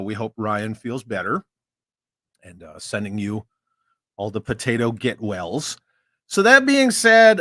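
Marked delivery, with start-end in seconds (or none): 6.3-7.4 loud, drawn-out hype; emphatic announce. Real, not acted. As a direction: build up the moment like an announcer. Host hypes transition loudly.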